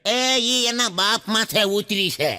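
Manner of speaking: slow, mellowed reply instead of scolding; the anger melts, answer gently; softened tone. Acted. Mother-in-law softening toward her flattering son-in-law, gently. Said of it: "tone ફરી ગયો એલા ભાઈ".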